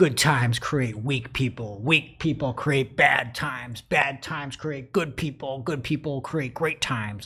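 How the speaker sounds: slow, big, raspy guru voice.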